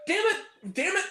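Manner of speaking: high, slowing mock lament to a husband; imitated exasperated wife. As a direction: play a woman despairing at her husband. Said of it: "she turns to her husband and goes".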